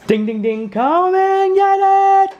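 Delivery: high, loud dinner call. Real, not acted. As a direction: ring the dinner bell and call out. Calling kids to dinner.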